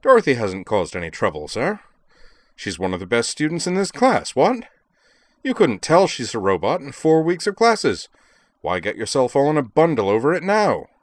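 put-on high, loud, swooping comic English lord accent; Lord Peter Wimsey. A narrator's reading. Student defends his classmate to professor, in comic English lord's accent. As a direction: plead indignantly like a comic-opera English aristocrat. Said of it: "his comic opera Lord Peter Wimsey accent".

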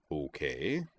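soft, even acknowledgement; calm, quiet okay with rising end; equable. A narrator's reading. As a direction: answer softly and evenly. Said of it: "still equable".

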